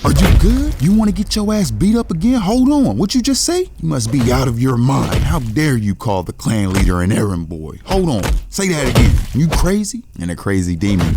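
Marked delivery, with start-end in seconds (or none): 0.0-10.0 much higher and louder, screaming in outrage; furious outburst. Acted. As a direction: explode at him for insulting the clan leader. Acted quarrel, enraged clan subordinate.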